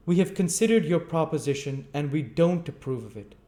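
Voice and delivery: high, loud pompous official voice; stern board chairman. Acted. Board chairman refuses the sweep, pompous and loud. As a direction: lay down the board's refusal loftily. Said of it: "Mister Limbkins said".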